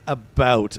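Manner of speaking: "about" carefully over-enunciated, open ow. Shown as a demonstration. Canadian streamer proves he avoids "a boot", "about" over-enunciated. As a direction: spell out the ow in "about" with care. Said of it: "I over enunciate it".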